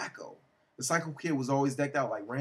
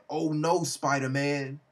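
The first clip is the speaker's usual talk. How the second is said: alarmed villain; 5 dB louder, slower than usual. Acted. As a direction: exclaim as a villain caught by the hero. Villain's startled cry at the hero.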